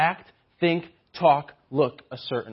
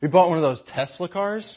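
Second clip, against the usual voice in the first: lightly voiced snooty mom, condescending; a hint of a boat-club mom showing off; bragging rich mom; 3 semitones higher, faster than usual. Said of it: "wealthy mom ... bragging to other moms".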